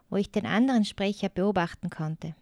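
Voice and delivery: unvoiced whisper. Girl recalls hiding in the corner, whispering. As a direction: breathe it like she's still hiding.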